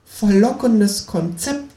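very slow, high kangaroo drawl. A narrator's reading. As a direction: savour the idea, stretched out.

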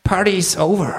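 high-pitched kangaroo voice; kangaroo action hero. A narrator's reading. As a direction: deliver a stretched catchphrase in a put-on voice. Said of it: "sagt das Känguru".

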